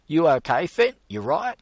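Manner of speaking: high, loud anxious fussing; panicked concern. A narrator's reading. Gus fussing over Fenton's chest, high panicked concern. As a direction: fret over him in a panic.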